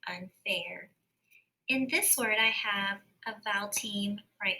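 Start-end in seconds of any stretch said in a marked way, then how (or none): 0.1-0.9 unfair said in a whisper. Shown as a demonstration. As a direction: breathe unfair with no voice. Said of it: "So I hear that long A sound".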